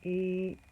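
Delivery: "K-E-P" as separate sounds; sounding out. Shown as a demonstration. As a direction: sound out "K-E-P" slowly. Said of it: "Which word is that?".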